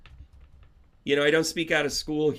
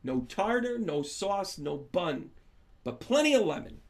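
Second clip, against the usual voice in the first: lunch order; 4 semitones higher than usual. Retold or imitated. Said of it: "And then she said".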